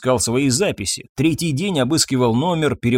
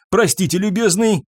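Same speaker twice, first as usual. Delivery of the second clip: brusque husband; 7 semitones higher than usual. A narrator's reading. Husband pushes the doctor aside.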